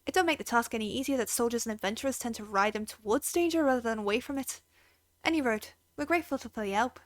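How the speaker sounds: put-on lightly done Irish accent; a hint of an Irish stable keeper, easygoing. Stable keeper thanking the adventurer, light Irish accent. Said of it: "if you have an Irish accent".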